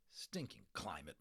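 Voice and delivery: grumpy under the breath; muttering father. Acted. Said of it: "muttered their father".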